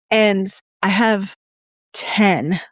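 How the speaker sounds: talking around a pencil; pencil in mouth. Real, not acted. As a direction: speak with a pencil between the teeth. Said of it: "I gotta put this pencil down".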